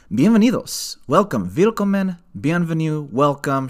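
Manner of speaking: grand theatrical host introduction; Cabaret emcee. Acted. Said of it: "for that introduction".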